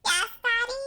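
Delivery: lightly voiced chipmunk squeak; a hint of a cartoon chipmunk. Shown as a demonstration. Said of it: "In chipmunk voice".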